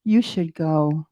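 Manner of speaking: a calm prompting voice inside her head; inner voice. Retold or imitated. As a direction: let the little voice nudge her slowly. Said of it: "this little voice says again".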